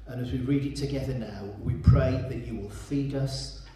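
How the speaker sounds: earnest, hushed prayer voice. Acted. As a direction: pastor praying before the scripture reading. Leads the congregation in prayer.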